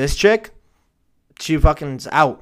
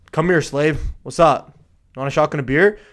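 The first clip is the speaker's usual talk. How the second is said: lightly voiced frat bro, a bit louder; 5 dB louder than usual. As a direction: toss it out like a casual party bro. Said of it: "like a, like a frat bro?".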